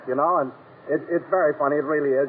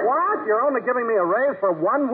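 1 shocked what; 4 semitones higher than usual. Acted. Don shocked by one-week raise.

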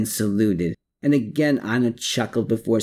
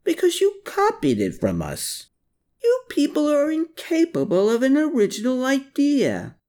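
growling. A narrator's reading. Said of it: "Klaus growled".

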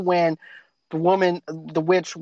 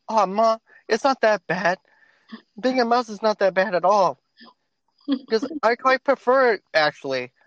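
a hint of a higher, contented kid; lightly voiced Bruno; 4 semitones higher than usual. Mouse boy reassures his mother, lightly voiced and content. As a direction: say it breezy, like a kid who likes being a mouse. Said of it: "My favorite line that Bruno says".

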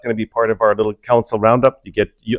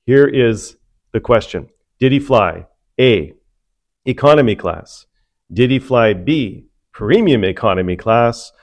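game show host; slower than usual. Acted. Hosts a mock game show.

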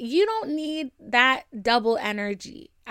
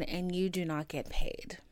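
whispered aside, softer; deadpan whisper; 4 semitones lower, 8 dB quieter than usual. Acted. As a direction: drop to a sly whisper for the punchline. Punchline tacked onto podcast intro.

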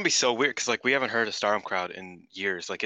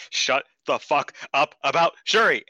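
angry yell; 5 semitones higher, 6 dB louder than usual. Retold or imitated. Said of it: "Micah going".

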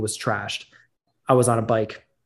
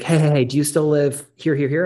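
louder, higher frantic caller; 4 semitones higher, 5 dB louder than usual. Retold or imitated. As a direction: imitate a friend's urgent phone call. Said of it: "he's frantic".

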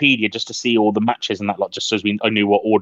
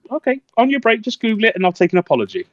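smug challenge; 11 semitones higher, faster than usual. Retold or imitated. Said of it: "I was like".

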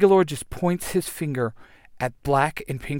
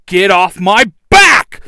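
slow, very loud straining roar; struggling against restraints; 6 semitones higher, 13 dB louder, slower than usual. Acted. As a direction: roar it from under the pile. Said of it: "the Red Ranger yells".

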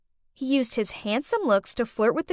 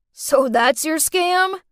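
slow, accusing; 4 semitones higher, 4 dB louder, slower than usual. Acted. Catching her out.

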